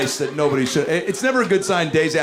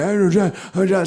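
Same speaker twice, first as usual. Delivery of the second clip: Joe Biden impression; 8 semitones higher than usual. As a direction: call out a name like a confused old man. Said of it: "When he's like".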